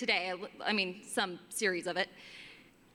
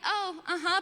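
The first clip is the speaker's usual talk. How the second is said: high, fake-polite uh-huh; mock polite reply to a rude customer; forced polite; 8 semitones higher than usual. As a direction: smile through it politely. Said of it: "I have to be polite".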